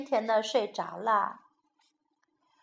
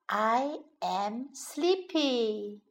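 slow, softer, drowsy "sleepy"; 3 semitones lower, 6 dB quieter, much slower than usual. Shown as a demonstration. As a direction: say "I am sleepy" as if nodding off.

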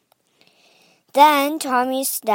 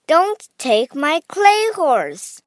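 higher, drawn-out storybook plea; mock cry of protest; 6 semitones higher, 3 dB louder than usual. A narrator's reading. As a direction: cry out slowly, lightly acted. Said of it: "cried Angela".

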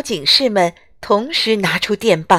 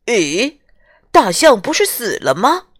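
surprised. Acted. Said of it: "大家都惊讶极了".

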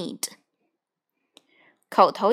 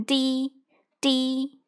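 car horn sound; 2 semitones higher, 3 dB quieter than usual. Shown as a demonstration. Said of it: "声音表示".

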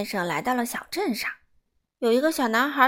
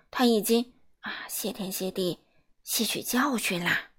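musing to himself. Acted. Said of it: "他自言自语地说".

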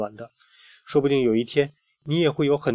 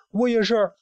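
flower's shout; 10 semitones higher than usual. Acted. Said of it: "另外一朵花也喊".

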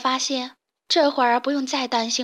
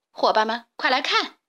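calling out. Acted. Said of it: "小六子招呼大家".

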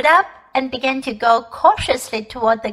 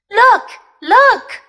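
higher, louder eager cry; excited cry; 9 semitones higher, 6 dB louder than usual. A narrator's reading. Diggory spots the ring on the guinea pig, crying out eagerly. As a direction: call out as if you've just spotted it. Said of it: "cried Diggory".

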